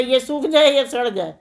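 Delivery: calling out. Acted. Simpleton shouts past an onion farmer, mock calling out. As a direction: call the slogan out, falling on the end. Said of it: "भाई साहब चिल्लाते हुए".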